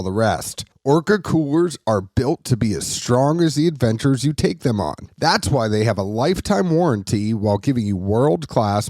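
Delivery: smooth sponsor read, even and polished; podcast host reading an ad break. Acted. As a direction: sell the cooler like a radio spot.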